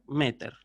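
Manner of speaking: "meter" as ME-ter, slow and falling; stress on first syllable. Shown as a demonstration. Teacher drilling the contrast, first-syllable stress on "meter". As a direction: lean on "me" in "meter", drop the "ter". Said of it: "pero en la sílaba anterior".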